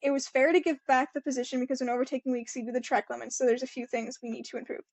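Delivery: quick, even reading voice; article read-aloud. Acted. Podcaster reading the race quote to co-host, brisk read-aloud. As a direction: read it out briskly, without performing.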